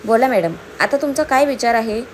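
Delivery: a touch of sarcasm; understated sarcastic question; mildly sarcastic. Acted. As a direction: needle her lightly with mock politeness. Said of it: "दक्ष तिरकसपणे म्हणाला".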